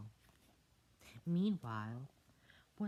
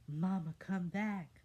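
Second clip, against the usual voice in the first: put-on child voice; 6 semitones higher, 6 dB louder than usual. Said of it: "one of the tadpoles says".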